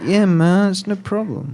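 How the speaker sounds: breezy no-worries tone; playing it cool. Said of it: "playing it really cool and just being like".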